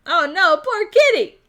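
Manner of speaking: high, loud mock pity through laughter; laughing pity. Real, not acted. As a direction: coo at the sad kitty while laughing. Pitying the crying cat.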